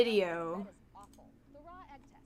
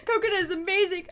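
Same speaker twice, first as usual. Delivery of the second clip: higher, louder, fast sarcastic praise; mock enthusiasm; 9 semitones higher, 6 dB louder, faster than usual. Shown as a demonstration. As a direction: overdo the praise with a laugh.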